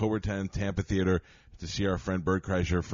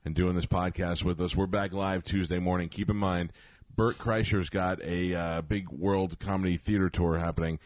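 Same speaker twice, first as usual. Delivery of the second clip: radio promo read; 4 dB louder than usual. Acted.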